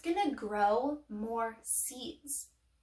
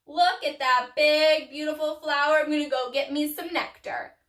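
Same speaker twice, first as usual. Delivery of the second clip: loud, delighted whoop, then eager chatter; whooping cartoon bee, loud and emphatic; excited bee; 9 dB louder than usual. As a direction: play a bee thrilled to spot a flower. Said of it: "they're looking at you like".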